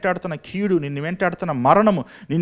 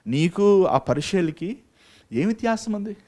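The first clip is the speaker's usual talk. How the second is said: slow emphatic repeat; 4 semitones higher, 3 dB louder, slower than usual. Shown as a demonstration. Preacher repeats his question to the congregation, slow and pointed. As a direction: drag out నీకు ఆ పరిచయలకి slowly, then lift ఏం వ్యత్యాసం. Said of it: "preacher repeats question slowly".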